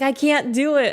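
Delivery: put-on high-pitched struggling child; imitated young son. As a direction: pitch it up like a protesting kid. Voices son struggling to climb.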